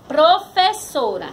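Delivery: "professora" slowly, as a whole word; palavra inteira. Shown as a demonstration. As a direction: announce "professora" clearly and unhurried. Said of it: "Vamos pra palavra". ("professora" devagar, palavra inteira)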